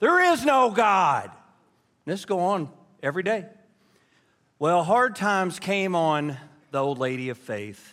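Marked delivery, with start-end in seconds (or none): 0.0-1.3 shrill, loud, hollered yell. Retelling a joke, the neighbor answering over the fence: imitating someone yelling. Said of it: "the next door neighbor would yell over".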